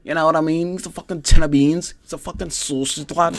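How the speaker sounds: high, shouty Scouse corner yell; Paddy Pimblett yelling. Retold or imitated. Cornerman yelling at his fighter, high mock Scouse shout. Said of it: "Paddy Pimblett in the corner, yelling, screaming".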